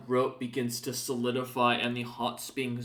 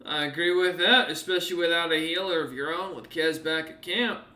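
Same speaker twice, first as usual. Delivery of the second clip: slightly higher, louder agreement; lightly voiced NPC; 3 semitones higher, 4 dB louder than usual. Scartsmander agreeing about the party's lack of a healer. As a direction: agree knowingly. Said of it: "He nods".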